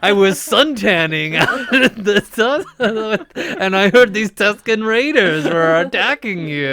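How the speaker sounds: put-on a laughing take on old Obi-Wan greeting; hint of Obi-Wan Kenobi; Obi-Wan impression. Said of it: "waiting for Obi-Wan Kenobi to come out".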